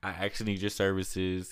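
hammed-up sheepish grin in the voice; mock cheerful. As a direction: play it cheeky, half joking with the company. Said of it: "I'm like".

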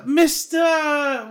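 loud, high, drawn-out teacher's call; Mister Feeney. Retold or imitated. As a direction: call it out slowly in a Boston Brahmin accent. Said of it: "Mister Feeney has a Boston Brahmin accent".

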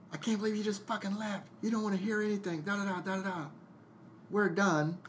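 high, fast mock rant of a fed-up girlfriend; imitating angry girlfriend. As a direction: play her indignant, pitched well up. Girlfriend's angry reply, retold.

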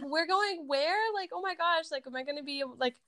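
imitating a stunned teen; mock disbelief. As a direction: act out a teen's horror at the news. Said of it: "And I was like".

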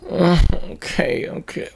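slow, groggy mumbled okay; groggy mumble. Retold or imitated. Retelling the friend half asleep on the phone, slow and groggy. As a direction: drag it out like just woken.

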